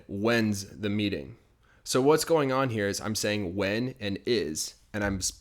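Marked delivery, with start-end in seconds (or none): 0.1-1.4 slow, careful model question; slow demo. Shown as a demonstration. Teacher slowly models the question for students, careful and clear. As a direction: spell it out slowly for the learner. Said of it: "So notice here, I said".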